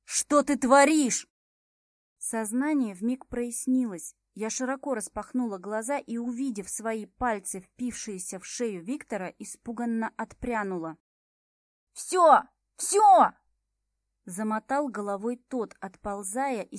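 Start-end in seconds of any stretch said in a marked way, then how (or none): 0.0-1.3 loud, slow, higher demand stressing "творишь"; angry. A narrator's reading. Max angrily demanding what the heroine is doing, loud and slow. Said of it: "А потом и злой". 12.0-13.3 high, loud, desperate cries; frantic surrender. Acted. Viktor surrendering to the heroine, high and loud.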